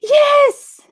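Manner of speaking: high, loud, drawn-out yes; emphatic agreement. Real, not acted. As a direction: squeal your total agreement.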